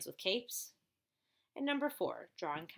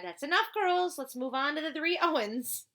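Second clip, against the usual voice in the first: stern teacher; 7 semitones higher, 4 dB louder than usual. Acted. Teacher cuts the girls off.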